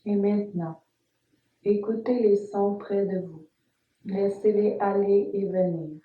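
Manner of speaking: calm, measured Yoga Nidra guidance with long pauses; guided meditation. Acted. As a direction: guide the listener phrase by phrase, leaving space after each instruction. (voix posée de méditation guidée, entrecoupée de silences)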